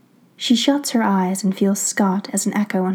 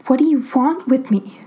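weak frightened voice; 4 semitones higher than usual. A narrator's reading. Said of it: "hating how weak her voice is".

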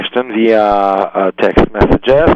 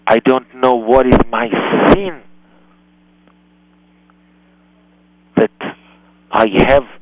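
calm, shocked disbelief; 3 semitones lower than usual. Shown as a demonstration. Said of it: "in a very calm voice".

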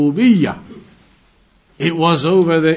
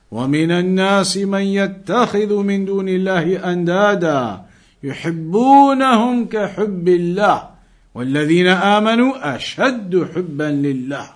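Quran recitation; much faster than usual. Acted.

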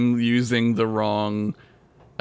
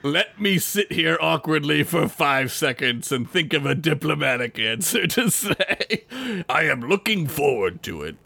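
Worf; 2 semitones higher than usual. Retold or imitated. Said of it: "He's like".

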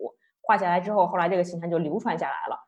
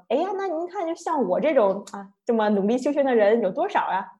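high, self-satisfied opening, then a lightly smug question; monk showing off to the bodhisattva, mildly smug; 3 semitones higher than usual. Retold or imitated. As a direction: fish for praise, a little smug. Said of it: "然后嘚瑟一下".

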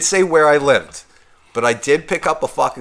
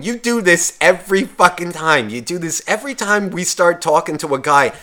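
higher-pitched mock scolding; retold yelling; 4 semitones higher than usual. Girl scolding her friend over a guy, mildly mock angry. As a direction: imitate an angry complaint without really yelling. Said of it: "fucking starts yelling at the librarian".

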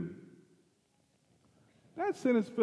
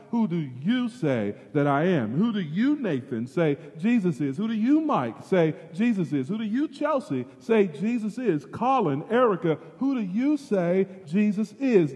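pressing question; 4 semitones higher than usual. Acted. Pastor confronting the congregation with Jesus's question. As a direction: drive the question at each listener.

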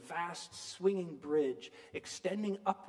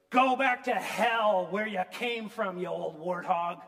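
Mary's furious retort, louder; angry outburst; 6 dB louder than usual. Retold or imitated. Girl hurls insult at Mrs Turpin, angry and loud. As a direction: spit it at the old woman. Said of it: "And Mary says".

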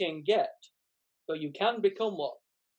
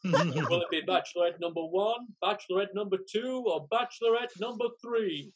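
game show host. Acted. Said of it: "acts like a game show host".

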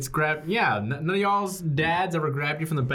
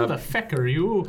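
Irish accent line. Shown as a demonstration. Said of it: "What's the sentence you're trying to say?".

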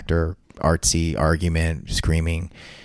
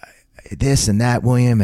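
retold outburst; 6 semitones higher than usual. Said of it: "I just go".

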